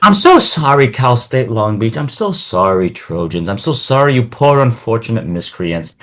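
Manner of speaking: theatrical, gloating pity; mock-solemn condolences; mock apology. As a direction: apologize to rivals with hammed-up sympathy. Mock apology to rival schools.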